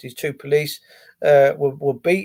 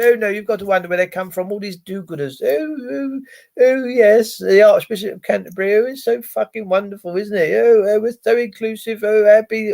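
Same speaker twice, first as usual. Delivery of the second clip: mock do-gooder; 3 semitones higher than usual. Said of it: "People of this country".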